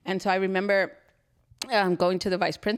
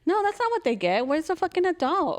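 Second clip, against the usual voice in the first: high, heated demand; heated outburst; 8 semitones higher than usual. Real, not acted. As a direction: demand it, indignant and raised. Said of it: "I get really heated".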